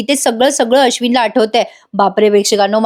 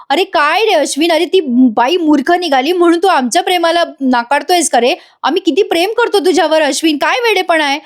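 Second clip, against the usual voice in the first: higher-pitched, hurt mock scolding; acted reproach; 5 semitones higher than usual. Acted reproach of distraught man. (नाटकी कळवळ्याने हलके रागावणे)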